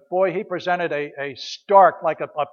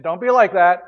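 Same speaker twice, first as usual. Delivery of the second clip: louder, emphatic "Don't be like that."; firm warning; 6 dB louder than usual. Acted. Paul warning the Philippians not to grumble, firmly. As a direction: say "Don't be like that." as a stern command.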